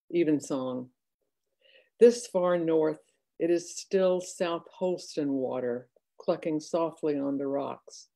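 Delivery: measured poetry recital with pauses between phrases; poem reading. Acted. Poet reads Evensong to online audience, measured recital.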